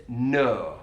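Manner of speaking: "no" with a long elongated Leeds vowel, slowly. Shown as a demonstration. Teacher imitating Calvin Phillips's Leeds "no". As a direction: stretch the vowel in "no". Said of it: "that elongated vowel sound".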